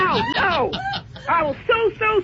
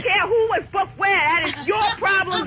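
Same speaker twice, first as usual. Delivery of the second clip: real angry outburst; faster than usual. Real, not acted. Furious customer argues with airline rep.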